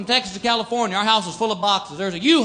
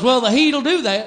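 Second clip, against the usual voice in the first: deadpan attendant; slower than usual. Retold or imitated. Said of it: "he goes".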